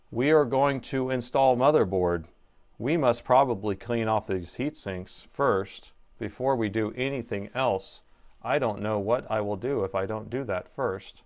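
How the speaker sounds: a hint of a dull commercial announcer; deadpan monotone. To viewers while installing the motherboard, lightly mocking monotone. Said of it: "Let's talk like this".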